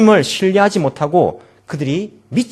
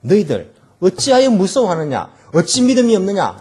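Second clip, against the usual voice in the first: louder, stern scolding; mild rebuke; 5 semitones higher, 5 dB louder than usual. Retold or imitated. Jesus rebuking his disciples, stern and raised. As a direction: scold them for lacking faith. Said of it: "예수님께서 꾸짖고 있는".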